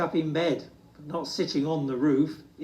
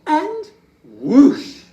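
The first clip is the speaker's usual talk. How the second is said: whoosh; 11 semitones higher, 12 dB louder than usual. A narrator's reading. Narrator sound word, burst.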